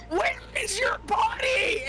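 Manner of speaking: high, strained mock shout; retold shout. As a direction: shriek it in the kid's face. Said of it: "just in her face".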